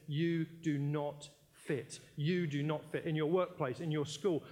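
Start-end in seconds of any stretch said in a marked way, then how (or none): 0.1-3.0 slow, taunting inner voice; a slow, mocking inner whisper of doubt; voice of comparison. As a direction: drag it out like an accusing voice. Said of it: "the voice ... that says".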